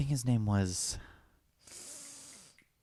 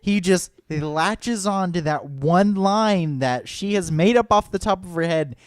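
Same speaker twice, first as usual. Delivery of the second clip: excited retelling; 5 semitones higher, 4 dB louder than usual. Real, not acted. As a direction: build it up with amused disbelief. Excited storytelling, laughing build.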